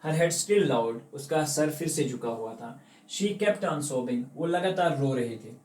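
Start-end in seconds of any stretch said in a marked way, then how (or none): 0.1-1.1 slow, deliberate English read-aloud; slow story reading. A narrator's reading. Reading story text aloud slowly. 3.1-4.2 slow, deliberate English read-aloud; slow story reading. A narrator's reading. Reading story text aloud slowly.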